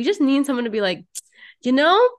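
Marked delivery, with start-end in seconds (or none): 1.6-2.1 high, louder, breaking into a laugh; light-hearted reassurance. Acted. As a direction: laugh it off for a friend. Acts light-hearted friend, laughing.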